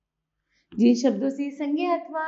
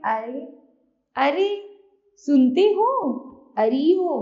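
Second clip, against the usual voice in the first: calling out; 6 dB louder than usual. Shown as a demonstration. Teacher demonstrating an address word, calling out loudly. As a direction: call out to get someone's attention. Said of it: "और संबोधन में है".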